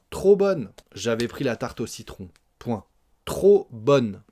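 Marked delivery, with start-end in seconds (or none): 0.1-0.7 high, loud "trop bonne"; exclamation. Shown as a demonstration. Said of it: "c'est une exclamation". 3.2-4.2 louder "Trop bonne"; exclamation. Shown as a demonstration. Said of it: "point d'exclamation".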